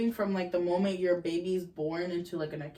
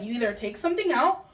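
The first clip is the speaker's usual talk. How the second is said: 1 stern mom. Retold or imitated. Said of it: "My mom would have been like".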